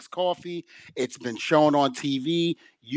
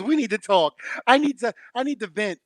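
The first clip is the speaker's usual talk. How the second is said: high-pitched mock plea to talk; imitating an urgent venter; 7 semitones higher than usual. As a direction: imitate a worked-up coworker needing to unload. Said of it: "she started venting".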